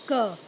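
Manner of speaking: क voiced as the opening sound of car; letter sound. Shown as a demonstration. Teacher isolating car's first sound, letter sound. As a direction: say क as a short "kuh". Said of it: "किस sound से start हो रहा है".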